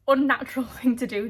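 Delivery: laughing. Real, not acted. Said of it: "It did feel like the most".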